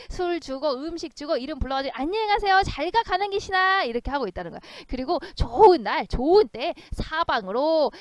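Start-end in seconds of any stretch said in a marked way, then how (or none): 2.0-3.8 high, loud farewell to a ghost; send-off call. Acted. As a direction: call goodbye as if shooing it off. 가난 귀신을 배웅하는 외침. (높고 크게 배웅하듯 외치며)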